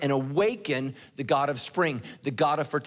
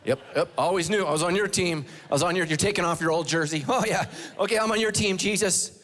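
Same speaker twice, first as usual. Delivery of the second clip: eager convert. Acted. Acting out sudden eager converts.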